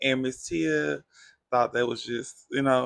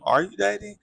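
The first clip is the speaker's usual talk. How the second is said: higher, louder teasing echo; mocking echo; 7 semitones higher, 5 dB louder than usual. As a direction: echo the question high and teasing. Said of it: "And everybody was like".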